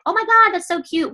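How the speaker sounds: a bubbly squeal of delight, only lightly played; imitating her own cutesy social media voice; gushing girly voice. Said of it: "like, that's how I talk".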